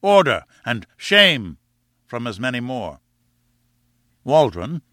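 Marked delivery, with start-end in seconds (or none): 0.0-0.4 loud, high call for order; counter-cry. A narrator's reading. Audience answering the yelling students, crying out. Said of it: "an answering counter-cry of". 1.0-1.6 louder cry of protest; counter-cry. A narrator's reading. Audience answering the yelling students, crying out in protest. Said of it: "an answering counter-cry of".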